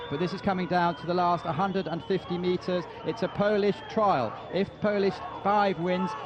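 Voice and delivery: rising, shouted play-by-play finish; excited race call. Acted.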